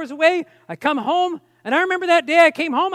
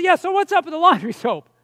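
slightly raised, nagging query; insistent follow-up question; 3 semitones higher than usual. Retold or imitated. Husband asking his wife once more about the soap, mildly insistent. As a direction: press the question with mild exasperation.

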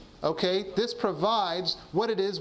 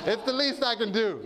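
laughing; 5 semitones higher than usual. Real, not acted. Laughing after his joke.

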